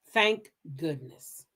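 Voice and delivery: whispered, slow thanks; hushed slow relief; relieved whisper. Real, not acted. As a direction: breathe it out under your breath. Relief aside after court news.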